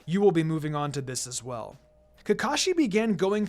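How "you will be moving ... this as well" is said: a touch lower, easy and even; a hint of a relaxed sensei; lightly voiced calm teacher. Kakashi praising Hinata at training, lightly lower and calm.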